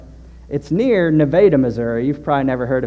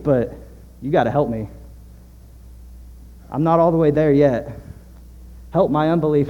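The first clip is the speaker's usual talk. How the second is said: earnest prayer. Shown as a demonstration. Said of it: "That's a prayer that we can pray too".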